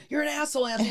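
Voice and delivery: fake-angry jab; mock insult. Wife pretending to snap at husband, mock angry. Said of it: "instead of going".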